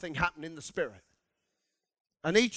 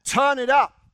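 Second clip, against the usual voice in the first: earnest plea; 3 semitones higher, 7 dB louder than usual. Retold or imitated. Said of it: "an attitude and a heart that says".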